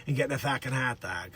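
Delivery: lightly voiced Boston guy, low; Dick Facce. Mocking Baldwin's Boston roots, Boston character voice. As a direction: slip into a Boston townie voice. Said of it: "Facce, again, he comes back out".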